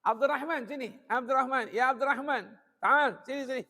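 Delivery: high-pitched proud father's call; affectionate calling. Acted. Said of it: "habaib begitu manggil anaknya".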